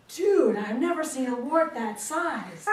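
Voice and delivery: loud, drawn-out amazement; astonished exclamation. Acted. Husband reacting to the aunt's wart, loudly astonished. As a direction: gawk aloud, stretching the words.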